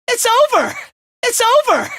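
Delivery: very high triumphant yell; finishing battle cry. Acted. Fighter finishing off an enemy, high fierce cry. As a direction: cry out high with the final blow.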